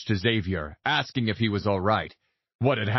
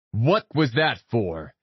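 demanding; slower than usual. Acted. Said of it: "I demanded".

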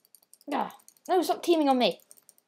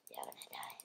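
very low, soft growl; deep menacing voice; 24 dB quieter than usual. Pretend. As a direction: drop to a monster rumble. Menacing line to enemies.

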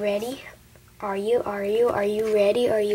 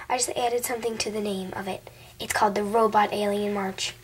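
eager whisper; 3 semitones lower than usual. Acted. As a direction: whisper the new name. Excited secret addition.

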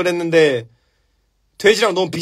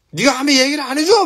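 higher-pitched indignant yell; angry outburst; 8 semitones higher than usual. Acted. Giant scolding the uncle for telling Harry nothing, angry. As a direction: blow up in acted outrage. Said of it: "막 화를 존나 내면".

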